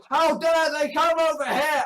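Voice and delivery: shouted parody of an indignant objector; mock outrage. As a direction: call it out in put-on indignation. Imitating outraged UKIP supporters.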